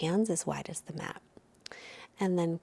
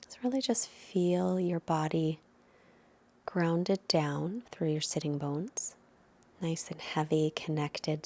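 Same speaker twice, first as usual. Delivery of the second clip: guided meditation; 3 dB quieter than usual. Acted. Leads into seated meditation.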